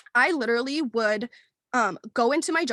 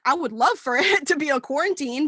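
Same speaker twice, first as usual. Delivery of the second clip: louder, laughing through the joke; laughing quote; 2 semitones higher, 5 dB louder than usual. Retold or imitated. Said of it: "'Cause I was like".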